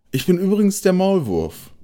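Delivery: high, eager mole voice for "übrigens"; mole character. A narrator's reading. The mole introduces himself to the squirrel in a high voice.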